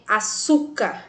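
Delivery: "açúcar" with the weight on "çú"; stress on penultimate syllable. Shown as a demonstration. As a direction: lean on the middle syllable of "açúcar". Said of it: "tem a penúltima sílaba tônica". ("açúcar" com a sílaba "çú" mais forte)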